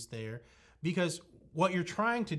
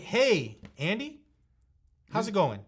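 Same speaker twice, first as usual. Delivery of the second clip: bright and upbeat, greeting climbs high and louder; cheerful hello to a prospect you know; friendly high energy; 6 semitones higher, 5 dB louder than usual. Shown as a demonstration. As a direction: greet him like an old friend, full of energy. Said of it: "With that friendly tonality, with that high energy".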